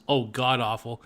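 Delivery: normal talking voice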